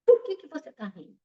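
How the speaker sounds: a touch of angry demand, quick; mildly angry question. Acted. Samurai offended by the laughing sage, mild anger. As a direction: samurai snaps the question lightly. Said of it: "o samurai ficou muito bravo".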